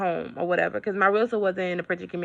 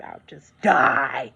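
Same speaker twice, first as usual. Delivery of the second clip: mock dying whisper; 5 semitones lower, much slower than usual. Mock dramatic despair.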